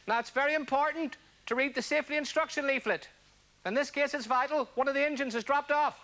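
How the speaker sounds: a hint of a captain making announcements, unhurried; airline pilot impression. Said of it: "an impression of an airline pilot".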